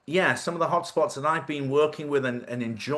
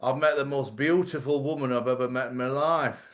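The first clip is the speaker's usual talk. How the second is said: northern English monotone. Retold or imitated. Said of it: "always talking like everything's like".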